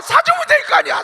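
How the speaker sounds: high, loud shout, 될 punched; hammed-up shouting mother; exasperated mother. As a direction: yell 될 hard in exasperation. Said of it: "나중에 엄마가 뭐래요".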